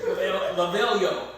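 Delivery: laughing through the catchphrase. Retold or imitated. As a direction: chuckle while repeating it. Mocking the intro catchphrase, laughing.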